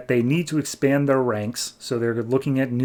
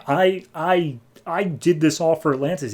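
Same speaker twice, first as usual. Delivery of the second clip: mock protest; 4 semitones higher than usual. Orm protests being left for trial.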